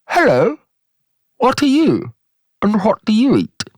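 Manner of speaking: high, swooping cartoon frog voice; wide mouth frog. Frog greets a giraffe in a joke, high swooping voice. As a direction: squeal it wide-mouthed, pitch leaping up.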